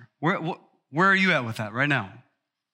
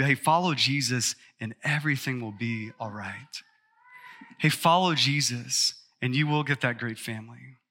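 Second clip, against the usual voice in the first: mild mock health-and-wealth pitch; mock prosperity preaching; 3 semitones lower than usual. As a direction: parody a prosperity preacher, half under the breath. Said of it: "I could preach that message".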